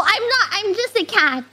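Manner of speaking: ordinary delivery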